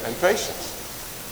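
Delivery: drawn-out words with long pauses between; slow recitation. Shown as a demonstration. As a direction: leave room for the group to repeat. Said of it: "I will say it slowly".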